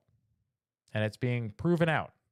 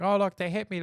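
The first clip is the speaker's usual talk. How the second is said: higher mocking victim whine; mock whiny victim; 6 semitones higher than usual. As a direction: play the fake victim. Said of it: "It's like".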